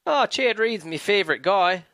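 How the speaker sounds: put-on lightly done Australian accent; a hint of Australian; mock Australian accent. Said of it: "You know what I like about Australian accent".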